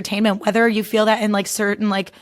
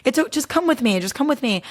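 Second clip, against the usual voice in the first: alarmed reassurance; 4 semitones higher than usual. Retold or imitated. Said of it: "And he was like".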